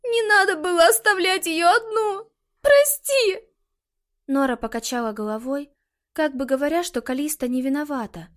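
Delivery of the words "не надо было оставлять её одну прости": high, loud sobbing apology; crying. A narrator's reading. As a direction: wail out the apology. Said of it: "И она расплакалась".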